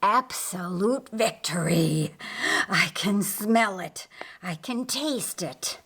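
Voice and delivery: savoring triumph; gloating Lucifer. Acted. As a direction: Lucifer about to strike, relishing the moment.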